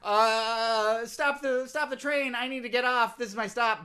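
high, loud, flustered plea; mock-desperate escape. Embarrassed host begging to get off the train, high and flustered. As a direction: call out high to halt everything.

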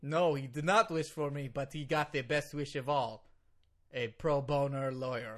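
put-on Russian-accented lawyer's proud claim; earnest heavy Russian English. Lawyer boasts of pro bono work, Russian accent. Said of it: "You are so Russian right now".

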